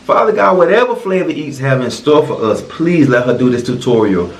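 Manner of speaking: low, hushed mealtime prayer. Acted. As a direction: pray earnestly over the food. Leads a joking grace.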